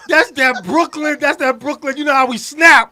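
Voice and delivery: loud proud boast; Brooklyn swagger. Real, not acted. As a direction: brag with attitude.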